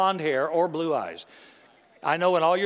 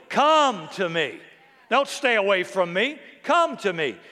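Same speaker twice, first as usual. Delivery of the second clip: calling out; 3 semitones higher than usual. Retold or imitated. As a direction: call them in with open arms. Voicing Jesus' invitation, shouted.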